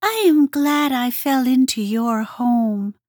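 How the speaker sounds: high little grateful voice; grateful Hedgehog. A narrator's reading. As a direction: glad and relieved. Hedgehog's character voice.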